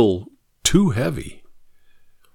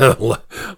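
brittle laugh. A narrator's reading. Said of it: "The thin man let out a brittle laugh".

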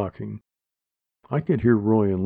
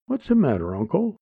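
put-on child voice; 7 semitones higher than usual. Scared child asks uncle.

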